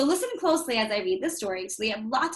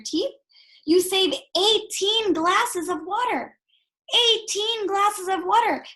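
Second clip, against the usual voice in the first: emphatic teacher; 4 semitones higher, 3 dB louder than usual. Real, not acted. Teacher stresses water waste.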